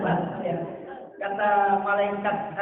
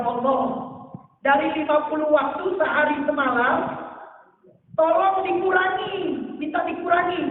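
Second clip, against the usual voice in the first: raised, urgent begging, pressing hard; 5 semitones higher than usual. Acted. Musa begs the Prophet.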